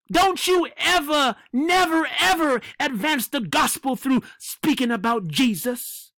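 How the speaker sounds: mocking the Pope. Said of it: "This is what he's saying".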